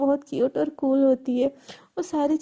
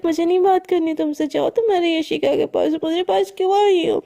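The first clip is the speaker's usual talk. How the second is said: mildly acted huffy outburst; sulky rebuff; 2 semitones higher, 4 dB louder than usual. Shreya tells off Riddhi for neglecting her, in a sulky protest. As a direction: push her away in a mild huff.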